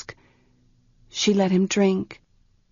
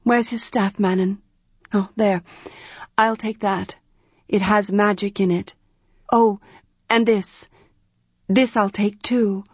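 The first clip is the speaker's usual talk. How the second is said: Arha's voice. Acted. Arha takes staff.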